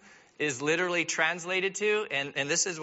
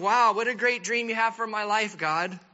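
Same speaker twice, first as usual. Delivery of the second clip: mock-grateful sarcasm, a bit louder; sarcastic Joseph; 3 dB louder than usual. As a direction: thank God with biting irony. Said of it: "Joseph's probably thinking".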